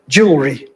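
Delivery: jewelry squeezed to two syllables, middle E dropped; syncopated. Shown as a demonstration. Lecturer reading a misspelt shop sign, syncopated jewelry. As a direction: say jewelry as JOOL-ree, without the middle vowel. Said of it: "So the E was syncopated".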